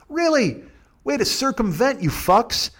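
high, incredulous really; indignant disbelief. Real, not acted. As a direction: shoot the word up in disbelief. Indignant reaction.

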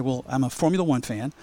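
lightly imitated Kenyan accent. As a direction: retell a fan's question, faintly Kenyan-accented. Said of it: "in this beautiful Kenyan accent and says".

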